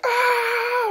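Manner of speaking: sudden very high, loud scream of pain; pained shriek. Retold or imitated. AI creature screaming as its head is ripped open. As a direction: let out a shrill cry of agony. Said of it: "He's like".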